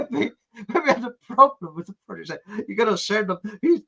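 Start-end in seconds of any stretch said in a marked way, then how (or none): 2.7-3.4 lightly imitated Texan; Texan accent. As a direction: mimic a Texan colleague. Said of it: "a bloke from Texas".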